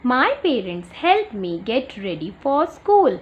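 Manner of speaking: very slow, word by word, for a class; slow read-aloud. Shown as a demonstration. Teacher reading a picture caption to young pupils, slow and clear. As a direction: read it out slowly so children follow. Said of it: "teacher reads sentence slowly".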